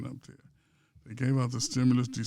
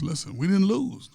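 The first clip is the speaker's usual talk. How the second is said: higher, louder insistent protest; a raised mock plea; mock Mahomes pleading; 6 semitones higher, 5 dB louder than usual. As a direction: insist to the ref you didn't lose. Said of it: "goes up to the ref and says".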